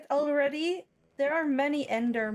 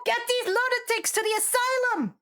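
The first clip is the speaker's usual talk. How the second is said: commanding shout; 9 semitones higher, faster than usual. Acted. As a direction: bark the order at the guards. NPC ordering guards.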